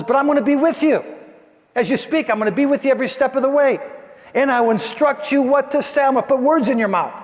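God urgently reassuring a doubting Moses. Acted. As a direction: lift the voice and rush to reassure.

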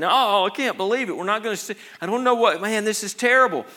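mock-weeping cry of despair; heartbroken John.

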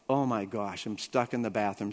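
low, soft retold dismay; muted dismay. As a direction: say it under your breath, dismayed. Retold realising he is stuck.

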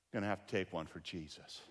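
low, soft line with a chuckle; laughing resignation. Retold or imitated. Pastor facing the furious man, wryly laughing. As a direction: brace for the hit with a wry laugh. Resigned joke before expected punch.

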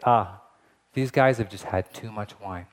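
low, scoffing "Ah, these guys have just had too much wine"; mocking dismissal. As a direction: brush it off like a smug skeptic. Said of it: "the best way they can rationalize it is to say".

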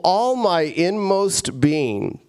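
slow, drawn-out exhortation to oneself; urging own soul. Acted. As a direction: stretch the words as you rouse your soul. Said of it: "like you're talking to your soul".

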